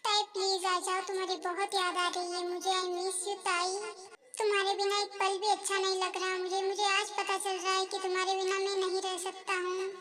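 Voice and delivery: whisper-soft sorrow, begging her back; husband alone, softly begging his wife to return; pleading longing. Acted.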